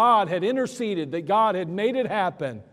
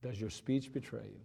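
soft closing question; 9 semitones lower, 14 dB quieter than usual. Real, not acted. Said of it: "closing quiet repeat".

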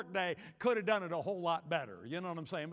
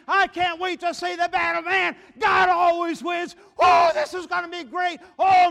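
high, very loud eager whooping; excited shouting; 5 semitones higher, 10 dB louder than usual. Acted. Teenage David running into the battle, excited shouting. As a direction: shout like a boy charged for battle. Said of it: "and he's shouting".

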